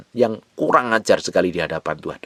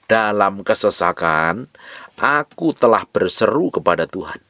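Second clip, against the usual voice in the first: reads the verse slowly, savouring each word; slow scripture reading. Shown as a demonstration. Preacher reads the fifth verse aloud to the congregation, slow and deliberate. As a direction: draw out Dalam kesesakan, then lift aku. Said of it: "Perhatikan ayat yang kelima".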